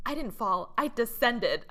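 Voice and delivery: lightly acted haughty heroine; quoting drama heroine. Retelling the heroine's proud correction.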